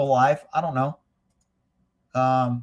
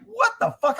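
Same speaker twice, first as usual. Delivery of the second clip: retold shock. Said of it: "I was like".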